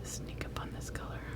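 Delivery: stealthy, hushed whisper; very soft, voiceless murmur. Real, not acted. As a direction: whisper as if sneaking up on something. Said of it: "Why am I whispering?".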